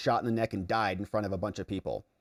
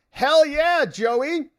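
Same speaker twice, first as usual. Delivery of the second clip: much higher and louder cheer; excited cheer; 14 semitones higher, 6 dB louder, much slower than usual. Real, not acted. Streamer cheering a viewer's comment, loud and high. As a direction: whoop it out.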